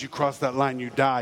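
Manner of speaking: low-voiced menacing big brother; a hint of a bully laying down the law; mock threat, pitched low; threatening brother.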